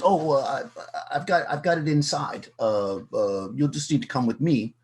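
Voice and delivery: mildly nervous, stumbling reply; flustered stalling. Acted. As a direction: stammer an excuse, restarting as you go. Same nervous dealer, put on spot.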